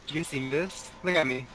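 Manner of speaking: glitchy robot voice from lag. Real, not acted. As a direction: sound like a lagging robot voice. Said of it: "You got that robot voice going on right now".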